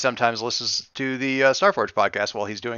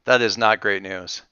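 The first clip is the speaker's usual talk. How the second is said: wary pilot; 6 dB louder, slower than usual. Acted. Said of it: "Ebon Skull ships that hail us, like".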